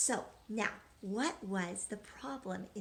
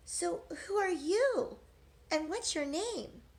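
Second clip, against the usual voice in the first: Eliza questioning; 8 semitones higher, 4 dB louder than usual. Acted.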